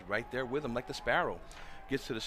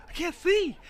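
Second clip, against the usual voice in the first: high, loud holler of "I can't see"; loud pitched-up panicked holler; 8 dB louder, slower than usual. Retold or imitated. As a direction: yell "see" out blind after the finish. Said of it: "And he's just hollering".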